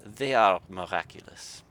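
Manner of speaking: a cross Yorkshire artificer grumbling; Yorkshire grumble. Acted. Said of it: "the artificial snorted".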